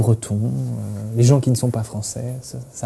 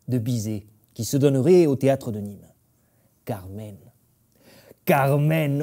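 lightly voiced old southern grandfather; a hint of a gruff old man from the Midi; grand-père. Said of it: "je fais mon grand-père". (voix de grand-père du Midi, à peine marquée)

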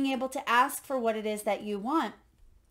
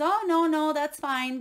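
higher, louder opening brush-off; breezy refusal; 4 semitones higher, 4 dB louder than usual. Retold or imitated. Man in tower turns down the boat, breezy refusal. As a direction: wave the offer away, voice jumping up at first.

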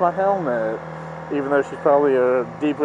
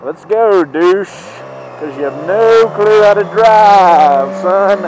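angry shout; 4 semitones higher, 9 dB louder than usual. Real, not acted. Yelling at driver at green.

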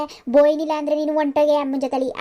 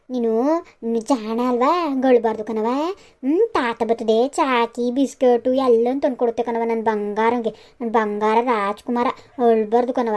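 tender soothing. Acted. Grandmother soothing crying grandchild.

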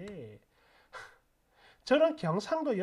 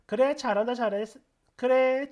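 louder cheering, go on then; 7 dB louder than usual. Retold or imitated. Commenter loudly cheering the sister-in-law on. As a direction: egg her on loudly.

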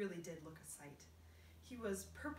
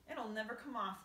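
louder, cheerful earthworm; bright; 3 semitones higher, 6 dB louder than usual. Acted. Earthworm cheerfully says the paint won't come off. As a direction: say it brightly, almost pleased. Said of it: "the earthworm said brightly".

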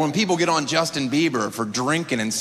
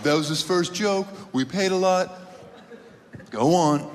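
grudging inner voice; 3 semitones higher than usual. Retold or imitated. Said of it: "they had the inner dialogue".

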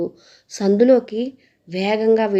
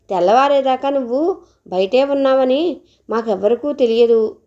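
mother scolding; 4 semitones higher than usual. Acted. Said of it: "అమ్మ చెప్పగానే".

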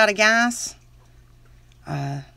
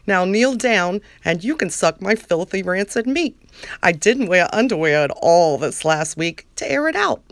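Lauren voice. Acted. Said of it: "my very best Lauren voice".

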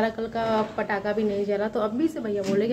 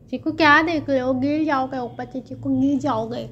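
higher voice for a pet; pet talk; 3 semitones higher than usual. Real, not acted. Warning Chiku about falling, high pet-talk. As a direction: warn a little pet in a raised pitch. Warns pet looking upward.

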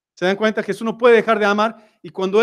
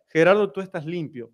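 tender God's voice. Retold or imitated. Dios habla con ternura a Gerardo.

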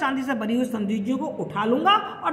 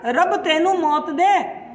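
angry curse; 3 semitones higher, 4 dB louder, much slower than usual. Retold or imitated. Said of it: "गुस्से में होते हैं तो फिर ऐसे बोलते हैं".

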